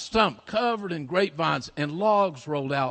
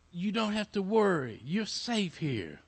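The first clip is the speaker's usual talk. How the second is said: softening, slowing reassurance; gentle acted comfort; reassuring; 3 semitones higher, 5 dB quieter than usual. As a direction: settle the child, easing quieter to the end. Big man reassures lost girl.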